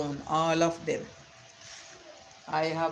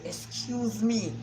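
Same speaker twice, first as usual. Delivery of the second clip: slow, high, haughty excuse me; with attitude; 5 semitones higher, slower than usual. Retold or imitated. Girl cutting off her boasting father, with attitude. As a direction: put him in his place with a slow cold excuse me. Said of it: "with attitude".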